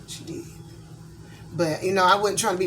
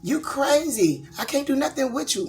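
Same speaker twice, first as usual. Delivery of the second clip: imitating ex-husband; 9 semitones higher, 3 dB louder than usual. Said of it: "my ex-husband used to say".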